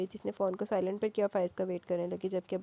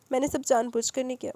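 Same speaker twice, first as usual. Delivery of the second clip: a hint of tearful apology; mildly weepy plea; sobbing; 4 semitones higher, 6 dB louder than usual. Darakhshi apologises to her father, lightly tearful. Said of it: "وہ سسکتے ہوئے بولی".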